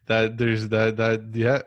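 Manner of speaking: amused, talking through laughter; laughing. Real, not acted. Host agrees with guest because it's so true, laughing. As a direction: start and restart through leftover giggles. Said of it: "I'm just laughing because".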